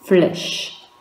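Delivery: «flèche» with the voice dropping; falling tune. Shown as a demonstration. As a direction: let «flèche» fall. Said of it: "Écoute bien la différence".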